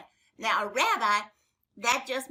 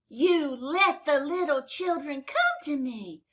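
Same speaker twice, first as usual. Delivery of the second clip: a firm, raised command to the disciples; Jesus correcting his disciples, firm and raised; firm rebuke; 4 dB louder than usual. Acted. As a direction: tell them off, steady and strong. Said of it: "Jesus got very angry at the disciples".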